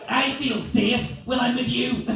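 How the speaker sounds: high, loud, slow declaration; imitating a frightening wife being loving; scary loving wife. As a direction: drag out affection until it sounds like a threat. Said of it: "being loving with that voice".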